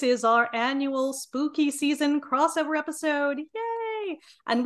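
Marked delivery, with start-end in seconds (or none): 3.4-4.2 excited cheer. Acted. Cheering spooky season.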